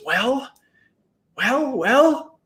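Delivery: high, rising pleading well; anxious calling. Acted. Boys anxiously waiting outside.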